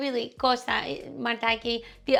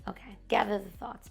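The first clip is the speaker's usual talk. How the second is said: whispered to herself; 3 semitones lower, 7 dB quieter than usual. Retold or imitated. Calming herself, meditating alone.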